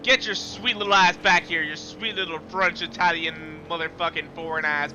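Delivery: loud taunting call at the rival car; loud gloating trash talk; taunting yell. Real, not acted. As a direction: shout him back like a trash-talking racer.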